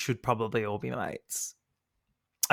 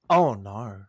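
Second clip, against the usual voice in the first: Babe impression; 3 semitones lower, 4 dB louder than usual. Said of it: "Great Babe impression".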